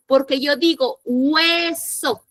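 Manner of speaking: slow hueso, the u and e both sounded. Shown as a demonstration. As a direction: stretch hueso so u and e both ring. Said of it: "Suena la U".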